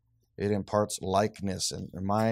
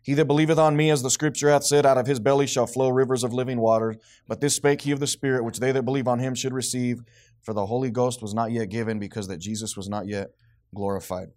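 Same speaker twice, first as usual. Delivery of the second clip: strong, raised opening easing down; scripture reading; 5 dB louder than usual. Real, not acted. Teacher reading a verse to the congregation, scripture reading. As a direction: read the verse out firmly, settling by the end.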